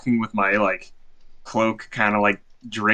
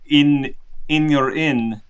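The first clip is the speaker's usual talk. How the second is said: measured, higher, badly faked Russian accent; 4 semitones higher than usual. Performer asks the bartender for a gig, very bad Russian accent. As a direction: request politely in a hammy Russian accent. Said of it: "He's doing a very bad Russian accent".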